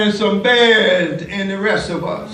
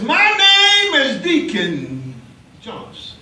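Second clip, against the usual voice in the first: deacon proclaiming; 5 semitones higher than usual. Retold or imitated. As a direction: announce your name proudly at the gate. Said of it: "He says".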